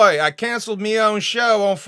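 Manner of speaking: loud, high hammed-up British accent. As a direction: bark it out in a cartoon Cockney British accent. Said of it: "do it as a British accent".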